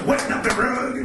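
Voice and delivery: muttered Redd Foxx grumble; lightly voiced Foxx complaining; Redd Foxx impression. Comedian still voicing Redd Foxx grumbling about the rug. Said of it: "Red Fox would be like".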